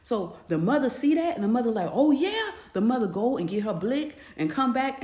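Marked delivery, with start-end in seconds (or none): 1.9-2.5 much higher and louder, loaded with menace; ominous anger. Retold or imitated. Mother seeing the stepfather caught cheating, ominous anger. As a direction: say it like payback is coming.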